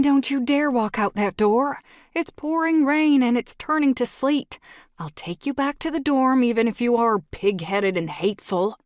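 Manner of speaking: loud and high, furious scolding; angry shout. Acted. Tracy yells at him leaving.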